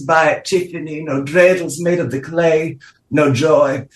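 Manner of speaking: mid-Atlantic diva with a Russian lilt; vague Eastern European accent. Acted. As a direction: purr it like a faded countess. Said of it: "vaguely Eastern European, ever-changing, somewhat mid-Atlantic accent".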